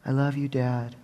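put-on little boy voice. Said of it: "his little voice".

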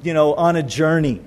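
lightly voiced mocking Elijah; sarcastic taunt. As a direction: jeer at them casually. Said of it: "a little bit of sarcasm to him".

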